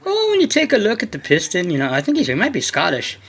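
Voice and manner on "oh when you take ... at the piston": higher, playful imitation of a British accent; imitating a British tuner's accent, higher; mock British accent. Quoting his favourite British tuner, in a mock British accent. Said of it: "frickin' cool British accent too".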